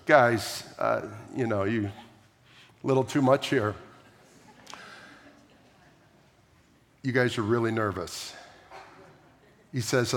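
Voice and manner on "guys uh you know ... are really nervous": doubting Thomas. Retold or imitated.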